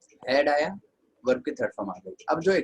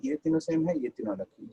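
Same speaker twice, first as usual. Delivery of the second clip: mimicking a student; 4 semitones higher than usual. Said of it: "अभी मैंने बोला था ना".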